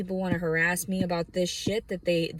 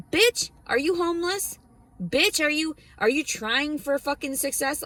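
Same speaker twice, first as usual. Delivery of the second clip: incredulous scoff; 9 semitones higher than usual. Real, not acted. Scoffing at skincare advice.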